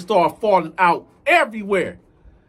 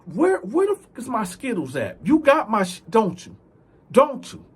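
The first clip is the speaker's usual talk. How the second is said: raised, accusing demand for the candy; angry demand; 6 semitones higher than usual. Retold or imitated. Demanding his Skittles back.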